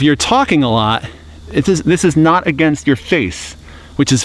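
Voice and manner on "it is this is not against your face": muffled behind palm; speaking through fingers; hand over mouth. Real, not acted. Seen 1: Hand cupped over mouth throughout the labelled words; absent at -1 and +3.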